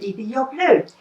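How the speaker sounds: wife's building mock exasperation; self-scolding, rising. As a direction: scold herself harder the second time. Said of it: "eigentlich bin ich ja blöd".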